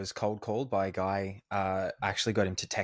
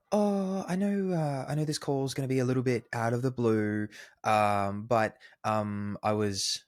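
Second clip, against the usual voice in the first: typical cold caller; 3 semitones higher than usual. Retold or imitated. Host mimics the usual digital marketing cold caller, mock hesitant. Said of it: "you know, the, the type".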